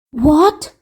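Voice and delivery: startled egg-man exclaiming; lightly surprised cry. Acted. Humpty Dumpty hearing of rescue, mildly surprised. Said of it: "exclaimed Humpty Dumpty".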